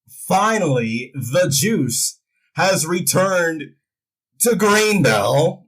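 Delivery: slow, drawn-out wrestling promo; lightly voiced Rock catchphrase, stretched out; Rock impersonation. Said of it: "does his best Rock impersonation".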